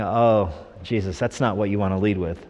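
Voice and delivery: low-key, tactful correction; gently steer the boss off a bad opening; lightly voiced consultant. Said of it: "some church growth consultant coming up to Jesus saying".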